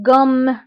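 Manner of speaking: غوم with a drawn-out final M; teacher's demo of غوم with doubled M; stressed double M. Shown as a demonstration. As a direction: press on the closing M of غوم and let it hum. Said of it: "كنضغط على هاد الإم".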